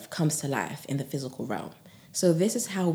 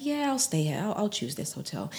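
nonchalant; 3 semitones higher than usual. Shown as a demonstration. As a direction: toss it off casually, as if it's no big deal. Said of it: "say it in a way that's kind of nonchalant".

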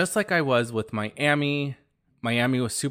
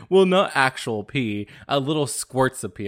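sheepish coworker voice; 3 semitones higher, 5 dB louder than usual. Retold or imitated. Coworker downplaying his bathtub peeing, sheepish. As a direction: play the embarrassed coworker correcting himself.

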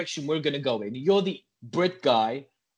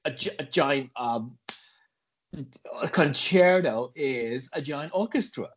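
put-on comic American accent, halting as you explain; American-accented podcast bluster.

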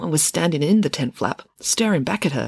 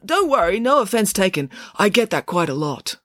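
high start settling to usual pitch; reassuring acceptance; 5 semitones higher than usual. Acted. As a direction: brush off the rejection. Parker reassures after rejection.

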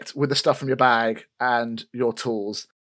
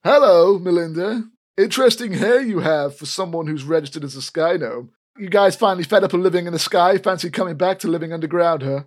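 smug sneer; 4 semitones higher than usual. Acted. Elfgeet teases Melinda.

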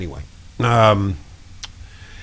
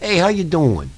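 light mobster impression; a hint of a mobster; 4 semitones higher than usual. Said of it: "the mobster one".

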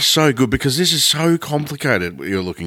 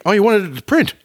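sarcastic; 11 semitones higher, faster than usual. Retold or imitated. Mocking hotline operator.

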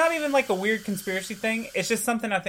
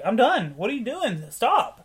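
rising, higher yelp-like objection ending in a loud high Stop; mock outraged protest; 5 semitones higher, 4 dB louder than usual. Imitating the sparring partner protesting to the boxer. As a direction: play the attacked guy crying foul, half-joking. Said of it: "And he's like".

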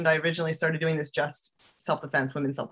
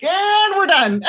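loud, high, drawn-out yell; body giving out; 9 dB louder, slower than usual. Acted. Body to traveler home from Hawaii, comic loud giving-out yell. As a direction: let out a slow, comic high shout. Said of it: "my body was like".

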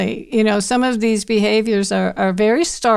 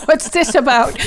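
higher, through bursts of laughter; laughing disbelief; 6 semitones higher, 4 dB louder than usual. Retold or imitated. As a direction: crack up while acting baffled. Retells shocked reply, breaking into laughter.

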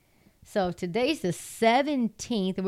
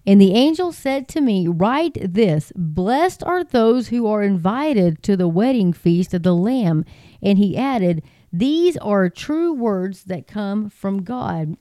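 steady, ringing Bible reading, a bit louder; scripture reading; 4 dB louder than usual. Acted. Preacher reads Revelation to his online congregation, ringing and proclaiming.

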